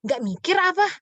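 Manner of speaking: a blunt mocking jab at idol worshippers; mock scolding. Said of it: "bahasa kasarnya kita".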